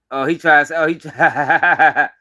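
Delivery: breaking into laughter mid-sentence; laughing. Real, not acted. Streamer reacting to a clip, laughing as he talks. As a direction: laugh through the words, very slow. Cracking up at the video.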